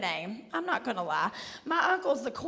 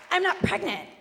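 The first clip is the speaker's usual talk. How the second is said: higher-pitched offended protest; imitated indignation; 5 semitones higher than usual. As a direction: act out an affronted customer. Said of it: "She goes".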